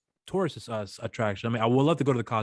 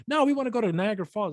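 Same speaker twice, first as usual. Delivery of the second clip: mock insistent dad; 11 semitones higher than usual.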